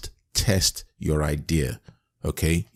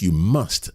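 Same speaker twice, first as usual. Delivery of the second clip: "must" set apart with firm emphasis; stress on must. Real, not acted. Coach giving the third action item, stressing "must". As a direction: lean hard on the word "must". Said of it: "I emphasize that word must".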